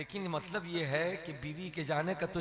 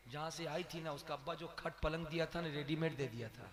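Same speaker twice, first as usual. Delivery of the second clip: mother-in-law gossip; 8 dB quieter than usual. Acted. Old mother-in-law voiced.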